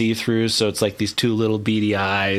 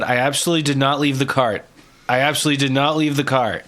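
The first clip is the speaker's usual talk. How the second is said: quick, emphatic protest of innocence; insistent denial; 2 semitones higher, faster than usual. Acted. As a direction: rattle off a firm denial, then repeat it. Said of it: "And then Zaz said".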